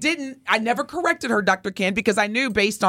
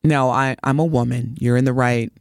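offended; 8 semitones lower than usual. Retold or imitated. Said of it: "now I'm offended".

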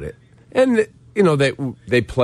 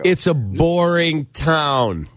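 mocking boring; 3 semitones higher, slower than usual. Real, not acted. Mocking rival city, drawn out.

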